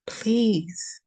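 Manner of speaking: breathy whisper, just the word; whispered plea. Acted. Reader begs the viewer, whispered. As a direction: plead in a hush.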